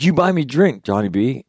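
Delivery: mock bar girl pleading in a Filipino accent; bar girl pidgin. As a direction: wheedle for a drink in a light Filipino accent. Bar girl voiced in story.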